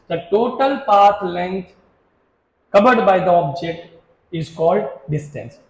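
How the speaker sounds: very slow, word by word, pause before the last word; slow dictation. Shown as a demonstration. Teacher dictating the definition to students, slow and spaced. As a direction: spell it out for notes, slowly.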